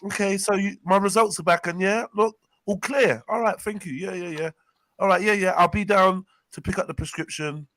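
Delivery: friendly patient on a call; phone voice. Shown as a demonstration. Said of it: "that's my voice there".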